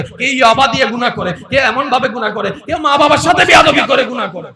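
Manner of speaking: pleading that swells into a shouted accusation; sky pleading to God. Acted. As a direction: preach the sky's complaint, rising to a roar. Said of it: "এবার আসমান রবের কাছে প্রশ্ন করে".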